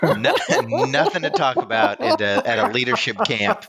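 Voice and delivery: laughing. Real, not acted. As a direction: laugh while talking. Laughing through reply.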